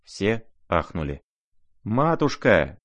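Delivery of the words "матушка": a raised wail of "Матушка!"; howling. Acted. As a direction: cry out to the heavens in alarm. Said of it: "всё ещё вопил Лебедев".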